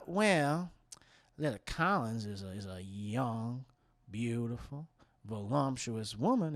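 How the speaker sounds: hushed insinuation. Acted. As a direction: pick each word out confidentially, with long gaps. Buzzard woman insinuates about the daughter.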